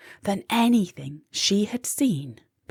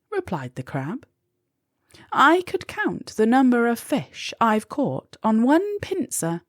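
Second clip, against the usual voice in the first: put-on higher, kindly old crab voice; wise old crab; 7 semitones higher than usual. A narrator's reading. The crab encouraging Molly, in a higher kindly voice.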